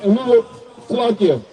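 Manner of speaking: slow, measured Bible reading; scripture reading. Acted. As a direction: read the verse out phrase by phrase. Reads scripture aloud between preaching.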